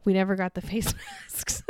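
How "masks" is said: laughing through the last word. Real, not acted. Wife admitting to her partner the masks never came, laughing. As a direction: break into a laugh at the end.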